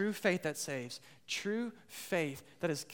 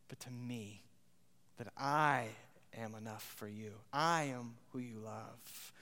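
God speaking intimately, tender and earnest; 3 semitones lower than usual. Acted. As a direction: draw the listener close as God. Voicing God.

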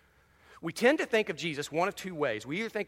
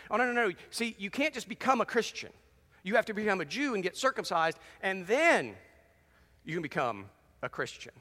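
mock teachers; 5 semitones higher than usual. Jewish teachers quoted, mocking.

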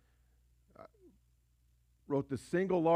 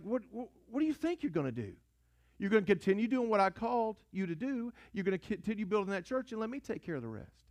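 God answering; 5 semitones higher than usual. Retold or imitated. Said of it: "And God's like".

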